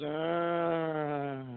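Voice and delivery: a drawn-out spooky arr from an unseen voice; mild imitation of a spirit's groan; imitated ghostly moan. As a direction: moan it like a ghost answering from the attic. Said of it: "And this voice goes".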